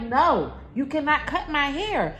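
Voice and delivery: firm refusal. Retold or imitated. Mother answering child's request to cut, firm refusal. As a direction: shut the request down firmly. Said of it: "I'm like".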